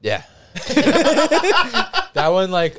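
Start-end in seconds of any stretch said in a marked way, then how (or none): 0.5-2.8 high burst of real laughter; laughing while trying to talk. Real, not acted. Laughing at the hot sauce smell.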